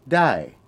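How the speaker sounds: "dai" with a falling tone. Shown as a demonstration. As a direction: start "dai" high and let it fall. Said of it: "which is a falling tone".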